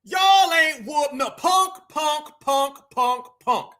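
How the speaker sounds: drawn-out, stretched jeer; mocking taunt. Real, not acted. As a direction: jeer slowly, repeating "punk" in separate beats. Taunting Sharpton after his clip.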